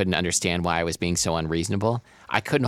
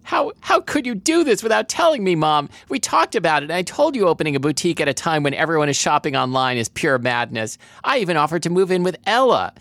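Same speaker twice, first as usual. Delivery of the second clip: much higher, pleading voice, read with feeling; tearful outburst; 8 semitones higher, 3 dB louder than usual. A narrator's reading. Daughter reproaching mom about the debts, tearful distress. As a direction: pour out the upset in a raised pitch. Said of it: "My voice broke as tears rolled down my cheeks".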